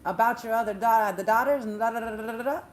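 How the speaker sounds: loud, emphatic announcement of charges, rising questions; accusing court official. Retold or imitated. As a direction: pronounce a treason charge like a royal herald. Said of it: "and says".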